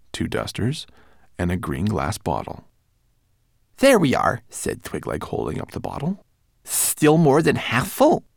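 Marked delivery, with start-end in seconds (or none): 3.8-4.4 high little manservant voice; fussy tiny homunculus. Acted. Twigleg speaks. 6.6-8.2 high little manservant voice; fussy tiny homunculus. Acted. Twigleg speaks.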